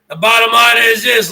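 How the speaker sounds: loud declaration at the rival streamer. Real, not acted. Rant, repeated phrase now loud.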